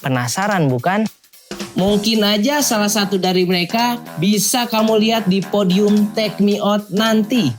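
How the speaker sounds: lively, drawn-out TV presenter delivery; upbeat hosting voice; show host intro. Acted. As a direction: tease the contestants like a show host. Host's scripted show opening.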